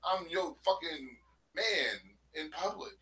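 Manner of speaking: high, smooth pimp voice imitation; smooth flashy pimp swagger. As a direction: play it like a slick pimp talking down. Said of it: "In his pimp voice".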